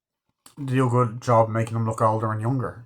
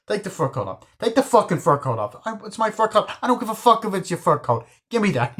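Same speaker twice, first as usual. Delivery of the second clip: barking high and loud at her; mock gangster shouting at a woman; angry yell; 10 semitones higher, 4 dB louder than usual. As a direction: order her around furiously. Jimmy yelling at the woman.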